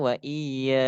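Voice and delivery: "iya" with the ya held long; dibaca panjang. Shown as a demonstration. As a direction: draw out the end of "wa iya". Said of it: "Jadi panjang". ("iya" dengan ya panjang)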